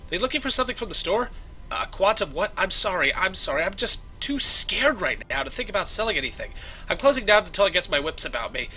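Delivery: a touch of fright, mildly frazzled; lightly voiced rattled shopkeeper. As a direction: gently play a shaken shop owner.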